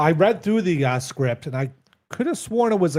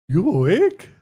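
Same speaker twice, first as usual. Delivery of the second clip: lightly put-on Jamaican accent, a touch louder; 3 semitones higher, 4 dB louder than usual. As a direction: try the line in a tentative Jamaican accent. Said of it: "You have to do it in your accent".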